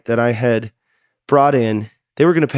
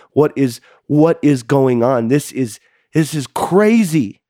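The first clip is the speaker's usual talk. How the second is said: retold exasperation, building to a drawn-out CRAZY; exasperated argument; 2 semitones higher, slower than usual. Husband arguing with his wife in the car, exasperated. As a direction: let the protest rise and stretch on the last word.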